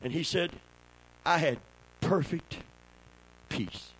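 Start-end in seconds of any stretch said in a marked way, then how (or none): 1.2-3.9 hushed calm. Retold or imitated. Wilkerson recalls calm.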